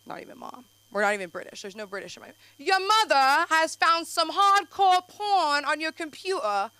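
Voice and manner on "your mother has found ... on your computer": high, loud, slow ominous reading; hammed-up doom-laden announcement; mock grave father; dramatic dad text.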